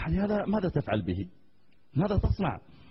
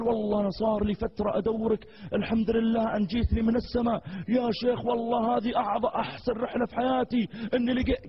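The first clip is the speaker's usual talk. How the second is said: higher, gushing with joy; the fan gushes to the sheikh, high and elated; overjoyed fan; 4 semitones higher than usual. Retold or imitated. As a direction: pour out delight at finally meeting him.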